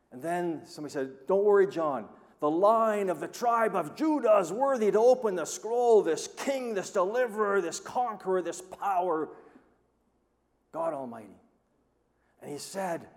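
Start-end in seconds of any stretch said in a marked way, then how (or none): 1.3-11.4 much higher, louder ringing announcement; triumphant proclamation. Acted. Elder reassuring John about the Lion, in a ringing triumphant proclamation. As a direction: proclaim the Lion with rising glory.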